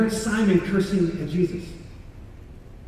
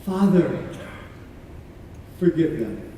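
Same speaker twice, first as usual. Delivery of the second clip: soft, low murmured repeat; quiet echo; 5 semitones lower, 6 dB quieter than usual. Acted. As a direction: say it softly to yourself, awed. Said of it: "echoing the words to himself".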